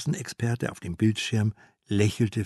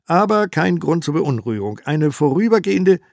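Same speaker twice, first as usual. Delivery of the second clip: louder and higher as it breaks off; rising pundit voice; 5 semitones higher, 7 dB louder than usual. Acted. TV expert's reassurance climbing before the scream. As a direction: push the reassurance up until it snaps.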